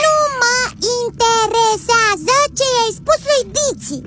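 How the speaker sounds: slow, word-by-word insistence; insistent rebuke. Acted. Child rebuking the robot over a rival, insistent. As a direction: spell it out, miffed.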